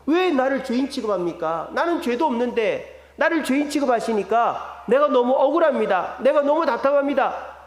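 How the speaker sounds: aggrieved retold protest, building a little; voicing someone who feels wronged; protesting to God. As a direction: plead your innocence with rising frustration. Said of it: "하나님께 따지고 있는 게".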